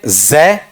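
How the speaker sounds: "जय" as a buzzed "zeh"; sound demonstration. Shown as a demonstration. Teacher contrasting three sounds for students, sound demonstration. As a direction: say "जय" with z, not j. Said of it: "एक sound ये है".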